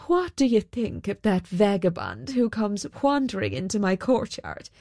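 a hint of indignant royalty; mildly affronted king, measured and lilting; lightly voiced disapproving king. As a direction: lightly play a king put out by a vagabond.

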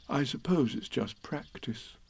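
soft, slow Pooh thinking aloud; a bear puzzling it out; Pooh musing. A narrator's reading.

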